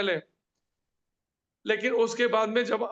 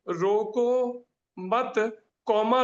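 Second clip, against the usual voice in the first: "रोको, मत" grouped together, break after "मत"; comma moved after मत; much slower than usual. Shown as a demonstration. Teacher showing students the shifted comma, pause placed after "मत". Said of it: "रोको की जगह हटा के मत".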